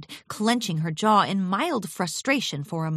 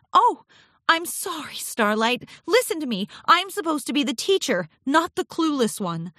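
high, flustered self-reproach; apologetic Twilight Sparkle; 6 semitones higher than usual. A narrator's reading. Twilight apologises to Starlight for rambling, flustered.

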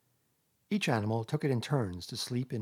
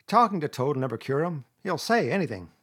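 raised, louder scornful Rat; contemptuous; 4 semitones higher, 7 dB louder than usual. A narrator's reading. Rat doubting Toad can be cured, contemptuous. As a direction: scoff at the whole idea. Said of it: "said the rat contemptuously".

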